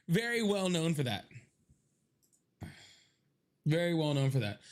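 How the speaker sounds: dry, mock-earnest sarcasm; deadpan sarcasm. Joking to viewers that the Irish are known for dark skin, dry deadpan. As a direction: say it like it's obvious, straight-faced.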